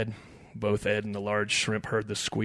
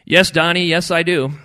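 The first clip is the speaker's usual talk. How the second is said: loud, raised, emphatic reply; exasperated retort; 8 semitones higher, 13 dB louder than usual. A narrator's reading. Ed answers his challenging buddy, exasperated. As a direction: fire it back loudly.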